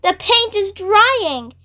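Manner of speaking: high, slow, drawn-out moan. Acted. Centipede moaning to the others as the paint hardens. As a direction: moan it out miserably. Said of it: "he moaned".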